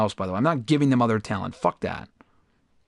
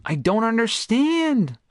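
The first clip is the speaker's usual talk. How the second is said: bewildered; 9 semitones higher, slower than usual. Real, not acted. Baffled by rejection.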